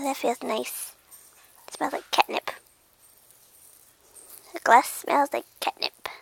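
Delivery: hushed, contented murmur; very soft, savoring it; blissed-out cat. Acted. Cat enjoying the smell of catnip, hushed.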